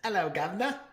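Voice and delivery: high mock pirate hello; playful pirate-style hello; pirate accent. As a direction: ham up a pirate greeting. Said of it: "Unless we're going to Gasparilla".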